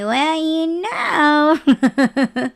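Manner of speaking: drawn-out laughing words. Real, not acted. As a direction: crack up while saying it. Laughing at her own planned retort.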